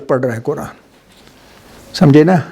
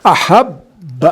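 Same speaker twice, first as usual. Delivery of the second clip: احب said very slowly with a held catch before the ب; very slow احب with a deliberate break; short pause demo; much slower than usual. Shown as a demonstration. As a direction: stop the breath briefly inside احب, then release the ب. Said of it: "تھوڑا وقفہ،".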